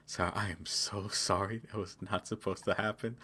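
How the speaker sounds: meek apology. Retold or imitated. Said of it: "he's like".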